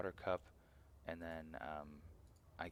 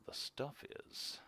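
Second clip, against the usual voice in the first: whispering; 8 semitones higher, slower than usual. Real, not acted. Whispered high aside.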